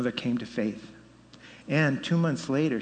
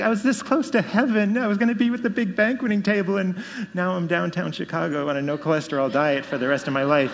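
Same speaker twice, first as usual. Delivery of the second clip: mock whining; 4 semitones higher than usual. Mock complaint about surviving.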